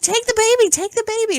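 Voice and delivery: high, urgent mock plea; retold panic. Dreamer hanging from a cliff begging her ex, panicked.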